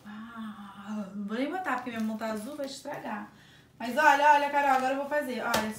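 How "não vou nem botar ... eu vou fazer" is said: ordinary talk, nothing marked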